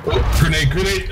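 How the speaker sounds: sudden high alarmed callout; grenade warning yell. Real, not acted. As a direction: yell the warning to your teammate. Enemy grenade lands nearby.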